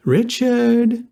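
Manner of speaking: put-on high, exasperated young woman; scolding young woman. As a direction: call his name, fed up.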